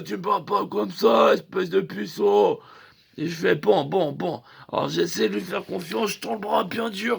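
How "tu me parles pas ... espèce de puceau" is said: tatoueur vexé qui crie. Retold or imitated. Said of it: "Il me fait".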